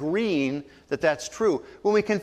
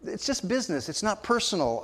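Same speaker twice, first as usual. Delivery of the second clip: slightly softer, casual brush-off; offhand imitation of an indifferent excuse; matter-of-fact; 4 dB quieter than usual. Shown as a demonstration. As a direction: shrug it off as just how things go. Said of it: "matter of fact, you're just saying".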